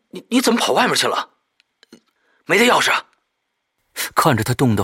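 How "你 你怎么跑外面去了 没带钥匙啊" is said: higher, louder, fast puzzled question; ask, startled to find her outside; surprised. Acted.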